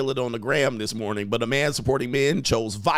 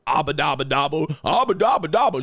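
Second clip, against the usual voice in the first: mock his old radio gibberish; mock babble.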